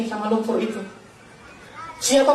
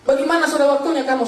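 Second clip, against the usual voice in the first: raised-pitch retelling of a yelled demand; half-shouted quote, pitched up; retold yell; 4 semitones higher than usual. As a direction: mildly imitate relatives calling out. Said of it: "saudaraku teriak".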